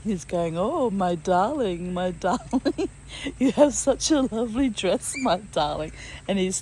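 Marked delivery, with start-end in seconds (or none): 0.6-5.9 a husband hamming up the stranger's words; playful mocking imitation, half laughing; teasing mimicry. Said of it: "he's teasing me".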